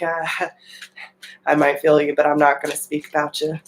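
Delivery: laughing mock reluctance. Air sign dodging the wave of emotion, laughing fast. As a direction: brush off the feeling with a laugh. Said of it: "And you're like".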